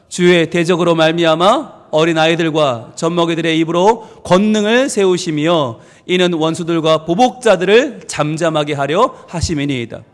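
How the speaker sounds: low, even unison-reading tone; solemn scripture reading. Acted. Pastor reading the second verse with the congregation, solemn reading. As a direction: read the verse aloud in measured phrases.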